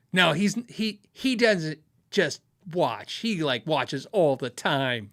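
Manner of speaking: imitating a wife, slow stress on "watches all the time"; insistent tattling wife. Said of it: "wives just immediately go for the".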